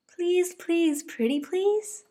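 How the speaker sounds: high, bouncy little bunny voice; eager little bunny. Acted. Dozy asking Mama what's for dinner, high eager bunny. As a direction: chant it like a hungry toddler.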